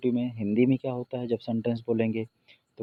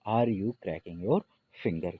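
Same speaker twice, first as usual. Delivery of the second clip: repeated slowly and more softly; slow repeat, a little softer; much slower than usual. Shown as a demonstration. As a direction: say it once more, gently and slowly. (धीमी, थोड़ी नरम दोहराई)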